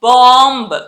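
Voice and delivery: బాంబ్ with long aa and sounded final B; everyday Indian way of saying బాంబ్; Indian-style bomb. Shown as a demonstration. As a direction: stretch బాంబ్ and voice its last B. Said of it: "మన normal Indian లాంగ్వేజ్లో".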